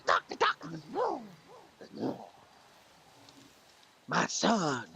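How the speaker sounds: very high, slow, mournful moth; sad moth voice. Acted. Moth complaining to the foot doctor, very high and mournful. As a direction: wail like a heartbroken moth. Moth character in told joke.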